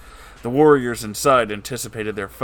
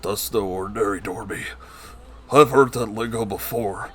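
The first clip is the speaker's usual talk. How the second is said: exclaiming. Acted. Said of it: "exclaimed a Thirstbeard".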